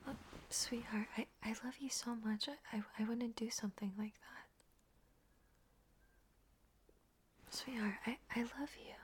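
soft, hesitant reassurance; quiet and halting; tender pleading. Acted. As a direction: plead gently to be believed. Pleading innocence to upset partner.

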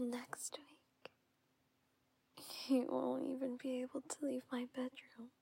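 soothing intimate whisper; tender whisper. Acted. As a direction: whisper gently and close.

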